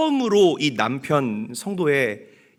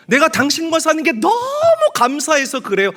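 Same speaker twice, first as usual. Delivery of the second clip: much higher and louder, laughing with joy; joyful gratitude; 13 semitones higher, 6 dB louder than usual. Retold or imitated. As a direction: burst out thankful to the husband. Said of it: "뭐라고 이야기를 했냐면". (남편에게 웃으며 높고 크게 감사를 외치는 아내)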